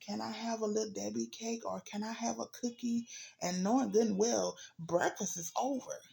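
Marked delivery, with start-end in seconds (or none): 0.0-3.1 lightly voiced whiny kid asking for sweets; a hint of a begging child; pestering child. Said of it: "your child come and say".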